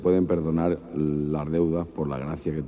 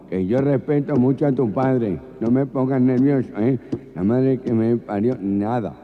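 higher, louder, slow flustered gangoso; nervous gangoso; 4 semitones higher, 4 dB louder than usual. Acted. Boyfriend flustered by his girlfriend's demands, hammed-up nervous gangoso. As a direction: stammer out the protest, getting worked up. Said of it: "el gangoso ya de tan nervioso".

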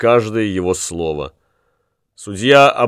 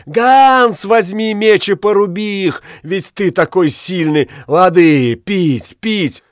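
a madwoman howling from the pain of fire; wild crazed scream; 9 semitones higher than usual. A narrator's reading. Tortured woman shrieks to her lover in wild, high frenzy. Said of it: "дурным голосом закричала".

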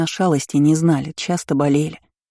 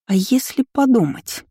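higher, insistent prodding; pressing; 6 semitones higher than usual. A narrator's reading. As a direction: press for an answer. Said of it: "продолжала наседать Лина". (с нажимом)

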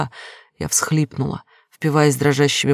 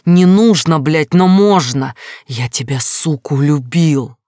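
much louder, a furious man yelling at her; raging confession, louder at the peak; enraged shout; 5 dB louder than usual. Acted. Ghost's enraged confession continues.

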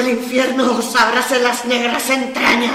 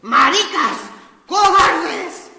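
tragic heroine sorrow; 11 semitones higher, much slower than usual. Acted. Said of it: "voz con esa cólera trágica".

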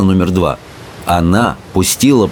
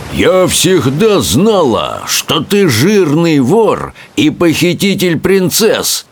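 high, slow, roaring accusation; roaring Bertha; 7 semitones higher, slower than usual. A narrator's reading. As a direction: bellow it like a furious warrior queen. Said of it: "проревела большегрудая Берта".

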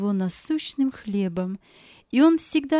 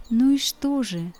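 tender inner voice; 2 semitones higher than usual. Acted. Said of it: "говорил он нежно".

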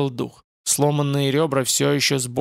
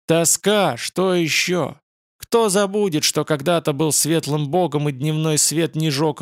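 furious demon roar; angry roar. Acted. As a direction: roar with bitter rage. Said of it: "от злого рёва". (злобный рёв демона)

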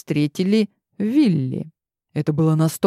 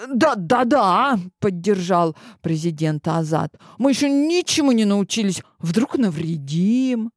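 eager agreement; 4 semitones higher than usual. Acted.

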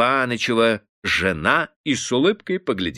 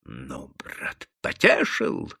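shout; 7 semitones lower, much slower than usual. A narrator's reading. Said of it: "кричал Обалдуй".

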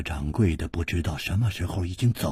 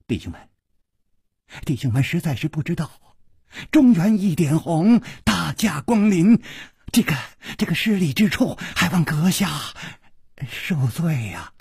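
high-pitched fawning apology; ingratiating, apologetic smile; 8 semitones higher than usual. A narrator's reading. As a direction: grovel politely with a smile in the voice. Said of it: "陪着笑说".

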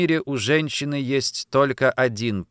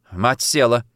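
plain reading voice

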